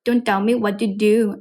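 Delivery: Indian-accented T's softened into D's; Indian accent demo. Shown as a demonstration. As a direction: try an Indian accent, T turning to D. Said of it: "they pronounce it as D".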